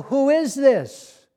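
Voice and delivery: puzzled question. Retold or imitated. Unknown caller giggling on phone.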